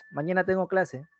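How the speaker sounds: "Mañana tengo clase" said evenly as a simple statement; calm declarative. Shown as a demonstration. Teacher modelling telling someone about class, calm statement. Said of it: "es un enunciado declarativo, tan normal, tranquilo".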